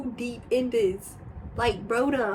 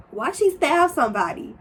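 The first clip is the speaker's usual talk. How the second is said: a touch louder and higher, imitating shock; retold disbelief; shocked question; 6 semitones higher, 5 dB louder than usual. Retelling her own shocked question.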